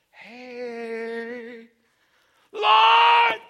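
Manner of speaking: high loud call held on Lord. Acted. Pastor reenacting Peter calling to the Lord, a loud call. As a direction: call out across the water.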